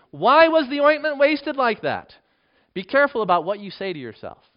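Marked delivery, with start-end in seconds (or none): 0.1-2.1 high, loud, slow protest; indignant. Acted. Onlookers objecting to the wasted ointment, indignant. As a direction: draw it out in raised-voice indignation. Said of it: "said to themselves indignantly".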